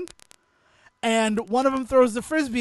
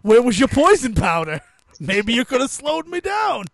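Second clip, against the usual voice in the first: mock taunt; 3 semitones higher, 6 dB louder than usual. Storyteller jokingly taunting the knocked-out Butterfree, loud mock taunt. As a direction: crow it at a beaten opponent.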